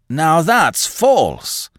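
put-on high, slow, strained old man's snap; old man's sharp, odd voice; sharp, unnatural voice. A narrator's reading. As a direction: bite each word out like a man half out of his mind. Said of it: "in a sharp, unnatural sort of voice".

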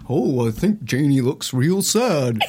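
slow, drawling horse voice; talking horse. Retold or imitated. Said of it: "a horse going like".

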